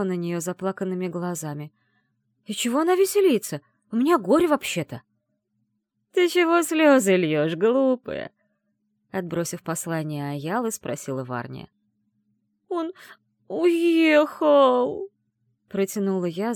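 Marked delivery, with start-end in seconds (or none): 2.4-5.0 high, loud tearful protest; tearful indignation. Acted. Heroine offended that grandma laughs at her grief. 6.1-8.3 put-on high, louder, slow old granny voice; old witch. Grandmother Varnia scolding the crying girl. 12.7-15.1 high, loud tearful wail; stammering sob. Acted. Heroine wailing to grandmother that he left. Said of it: "заикаясь".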